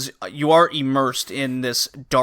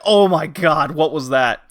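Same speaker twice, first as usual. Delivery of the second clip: louder, startled mock gasp of shock; 4 dB louder than usual. Player reacting to the dog pulled underground, mock shock. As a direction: act startled by the rumbling. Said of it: "And you're like".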